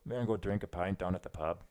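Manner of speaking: lightly attempted Irish brogue; Irish accent. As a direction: try a casual Irish pub accent. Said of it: "Irish only because".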